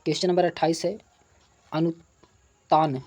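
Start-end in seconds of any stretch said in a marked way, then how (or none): 1.7-3.0 drawn-out term. Shown as a demonstration. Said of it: "तो अनुतान क्या है?".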